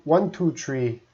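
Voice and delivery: "tree" with a hard t for th; Newfoundland tree. Shown as a demonstration. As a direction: count with the "tree" sound. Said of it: "doesn't work very well".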